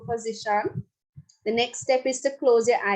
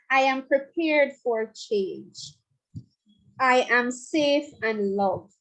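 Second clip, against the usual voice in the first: sincere affirmation; slower than usual. Shown as a demonstration. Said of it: "you must say it like you mean it".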